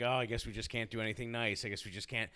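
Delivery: sarcastic fake apology to class; passive aggressive. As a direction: lay the guilt on sweetly. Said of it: "I went total passive aggressive".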